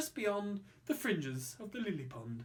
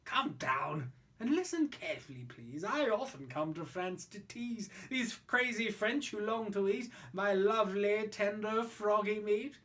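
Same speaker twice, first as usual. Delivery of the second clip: cool and calm. Acted. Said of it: "as cool as cool could be".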